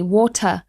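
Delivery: WATER with silent R; British pronunciation. Shown as a demonstration. Teacher explaining the British WATER, no R sounded. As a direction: end water on a plain vowel after the T. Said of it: "We don't pronounce the R".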